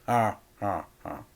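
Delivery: dry, forced little ha ha ha; a laugh that is barely a laugh; mock laugh. A narrator's reading. Crime boss giving a cold forced laugh. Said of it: "a noise that sounded a little like a laugh".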